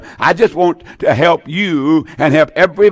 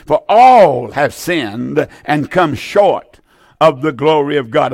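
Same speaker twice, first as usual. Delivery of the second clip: slow reading; slower than usual. Shown as a demonstration. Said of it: "I really want to emphasize that".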